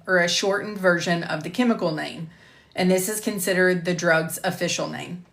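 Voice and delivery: clear, measured e-learning voice-over; lecture narration. Acted. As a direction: present it like a recorded course module. Re-records the lecture slide.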